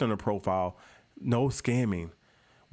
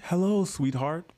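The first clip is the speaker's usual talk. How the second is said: mock flirty greeting; 7 semitones higher, slower than usual. Reading scammer's flirty DM.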